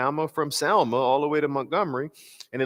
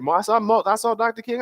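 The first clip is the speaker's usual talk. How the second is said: much higher, awed; John Lewis remembering, much higher; 10 semitones higher, 4 dB louder than usual. Retold or imitated. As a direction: tell it like a boy amazed. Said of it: "my attempt to do his voice".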